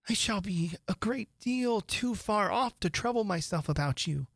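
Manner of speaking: put-on light, girlish musing to herself; Alice fussing fondly over her own feet; a little girl chatting to herself, amused; young Alice voice.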